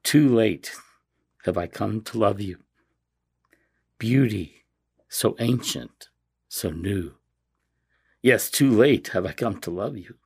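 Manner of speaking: slow prayerful reading with long pauses; measured, heartfelt devotional reading; reverent reading, near choking up. Real, not acted. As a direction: read a beloved prayer aloud, holding back emotion. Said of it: "hope we can read it without choking up".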